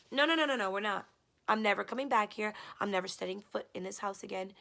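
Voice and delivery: retold refusal. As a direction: push back firmly on him. Retelling refusing him.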